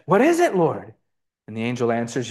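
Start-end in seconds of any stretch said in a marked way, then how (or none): 0.1-0.9 mock terror. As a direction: act frightened, lightly hammed-up. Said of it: "stared at him in terror and said".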